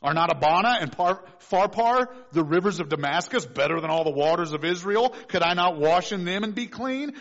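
a touch of loud indignation; indignant Naaman. Acted. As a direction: Naaman huffing at the insult. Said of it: "He said".

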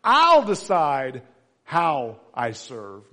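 slow, loud defiant declaration; mock stubborn defiance. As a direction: plant your feet and refuse. Defiant voice of reluctant servant.

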